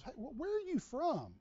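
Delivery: high-pitched retold curious question. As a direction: ask it high, imitating a puzzled counselor. Camp counselor quizzing him about origin.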